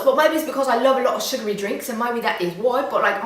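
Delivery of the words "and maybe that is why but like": normal talking voice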